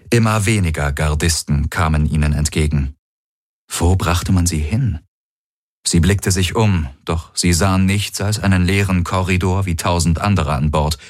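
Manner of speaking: ordinary delivery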